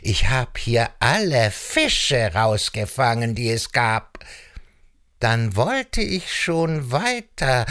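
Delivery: leicht gespielter Reiher, mit großen Tonbögen; lightly voiced prowling heron, swooping intonation; lauernder Reiher. Reiher spricht in der Geschichte. (lauernder Reiher, leicht angedeutet)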